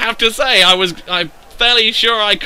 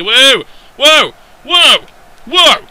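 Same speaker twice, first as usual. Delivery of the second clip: louder, rising run of whoas; excited whoas; 5 semitones higher, 7 dB louder, slower than usual. Real, not acted. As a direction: cry out in short loud bursts. Startled cries during match play.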